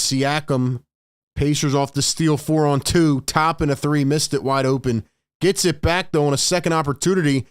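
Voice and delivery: quick, lively game call over the action; live play-by-play. Acted. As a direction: call each play as it happens.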